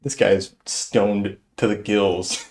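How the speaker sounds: telling buddies the worker is stoned, slow and knowing; hushed aside. Retold or imitated. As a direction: lean in and let it land slowly. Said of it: "I was like".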